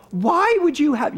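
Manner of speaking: put-on high, loud Philly-accented indignation; relative's Philly accent. Relatives objecting to him marrying the cousin, exaggerated Philly accent. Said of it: "In that accent".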